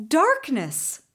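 Marco cries out into the dark; sharp startled cry; cried out. Acted. Boy crying out in the darkness, startled. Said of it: "Marco cried".

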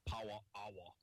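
mock Jamaican accent. Shown as a demonstration. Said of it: "say it like a Jamaican".

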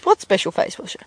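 lightly voiced puzzled mum; a hint of a mum playing innocent; mum replying. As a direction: answer as mum, close to your own voice. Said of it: "And her mum goes".

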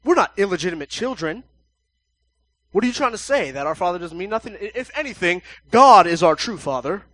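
loud indignant protest, rising to a yell; the crowd yelling at Jesus in offense; offended shouting. Retold or imitated. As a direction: shout back, deeply insulted. Crowd angrily insists on Abraham.

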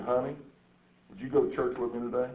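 soft, gentle imitation of a sweet wife; very sweetly. Wife gently invites her husband to church, very sweetly. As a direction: make a quiet, sweet request. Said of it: "She'd say very sweetly".

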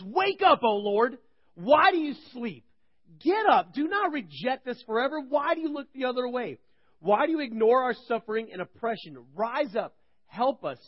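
high, loud cry up to God; psalmist yells. Retold or imitated. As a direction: shout it like a desperate plea to heaven. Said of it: "the psalmist yells".

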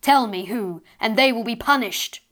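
put-on a mother demanding who hurt her child; angry. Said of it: "this time angrily".

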